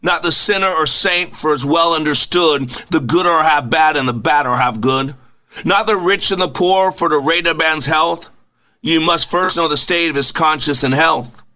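measured poem reading with a lift on each line start; reading a poem to open the show; poem recitation. Acted. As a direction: recite the verses with a steady, rhythmic cadence.

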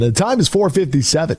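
imitated news anchor. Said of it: "in your anchor voice".

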